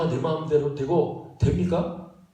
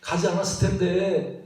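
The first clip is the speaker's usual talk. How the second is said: mock blaming. Disciple blaming a companion for the stormy trip, mock reproachful. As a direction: whine the accusation, stretching the phrase endings. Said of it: "막 원망하고".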